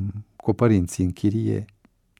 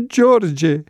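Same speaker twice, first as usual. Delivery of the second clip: higher, louder cry of surprise; surprised exclamation; 7 semitones higher, 4 dB louder than usual. Acted. Newcomer recognizes George in the cell, surprised cry. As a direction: call his name out in shock. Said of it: "exclamă noul venit".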